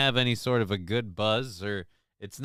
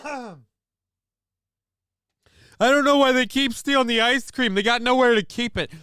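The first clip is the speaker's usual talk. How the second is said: incredulous outburst; 8 semitones higher, 5 dB louder than usual. Real, not acted. Incredulous rant.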